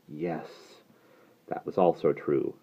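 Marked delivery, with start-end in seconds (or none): 0.1-0.8 very soft, hushed yes; barely voiced admission; whispered. A narrator's reading. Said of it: "closed her eyes and whispered".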